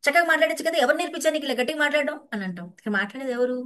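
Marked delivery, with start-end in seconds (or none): 0.0-2.2 a mild mock scold, a bit louder; mock angry mother. Mother snapping back at her talking-back child, mild mock scold. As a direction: scold the child for raising his voice. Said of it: "అంటే".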